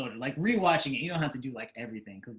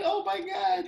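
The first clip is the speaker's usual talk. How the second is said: retold shock; 3 dB louder, slower than usual. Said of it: "I was like".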